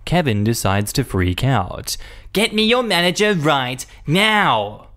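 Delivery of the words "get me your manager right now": high slow demanding shout; imperious customer demanding a manager; entitled customer. Retold or imitated. Kevin decides to freak out.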